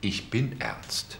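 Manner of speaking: slow, understated sincerity; quietly serious, drawn out; earnest insistence. Acted. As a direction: say it slowly and in earnest.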